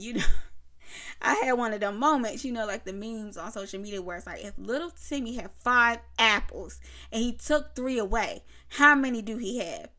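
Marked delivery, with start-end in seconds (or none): 4.4-9.9 loud, emphatic quiz-question delivery; mock word-problem reading. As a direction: read out a child's math problem with punchy stresses. Voices a meme's math problem.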